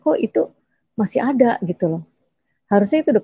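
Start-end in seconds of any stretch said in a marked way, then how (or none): 0.0-1.6 high puzzled inner voice; inner surprise. Retold or imitated. Thinking in surprise that the balance remains. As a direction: wonder aloud in disbelief. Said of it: "Tapi dalam hati saya".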